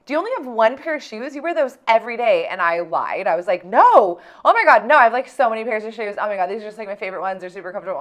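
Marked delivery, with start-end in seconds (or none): 0.1-2.5 mocking schoolgirl. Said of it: "one of the girls is like". 3.7-8.0 loud, rushed, flustered denial. Retold or imitated. A kid lying loudly to a classmate about her shoes, flustered denial. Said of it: "And I totally lied".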